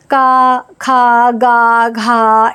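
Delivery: का, खा, गा, घा chanted one by one, slowly; reciting barakhadi. Shown as a demonstration. Teacher reciting the barakhadi as children do. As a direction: recite the Hindi vowel table. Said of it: "ऐसे आ का डंडा लगा के करवाते हैं".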